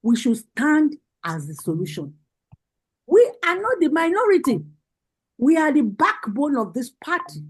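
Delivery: rousing rally address, rising on each call; fiery political speech. Real, not acted. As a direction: preach it to the party women like a campaign rally. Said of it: "spitting fire".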